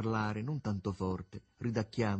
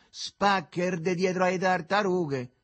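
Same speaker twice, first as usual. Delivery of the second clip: high, loud, slowly stretched cry; shouted exclamation; 8 semitones higher, 7 dB louder, slower than usual. A narrator's reading. Begalo carries on about the heat to his pal, shouting. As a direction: holler it, drawing out the words. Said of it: "gridò il Begalo soffiando".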